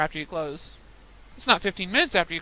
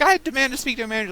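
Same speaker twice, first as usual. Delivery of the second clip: imitating a Russian accent, higher and fast; mock a demanding Russian customer; 7 semitones higher, 5 dB louder, faster than usual. A hint of Russian accent, customer demanding a manager. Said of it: "he's like".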